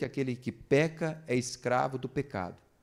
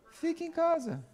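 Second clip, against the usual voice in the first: mock indulgent parent; 14 semitones higher than usual. Indulgent parent giving in, mocked.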